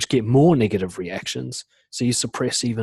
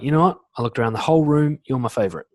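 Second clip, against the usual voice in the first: bold, simple admission; 3 semitones higher, 4 dB louder, faster than usual. Shown as a demonstration. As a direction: declare it boldly, then settle. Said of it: "It's really bold, really simple".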